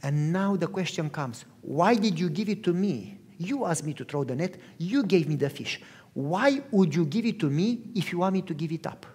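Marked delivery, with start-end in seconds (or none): 1.6-9.0 hushed plea. Retold or imitated. Peter's hushed question to Jesus.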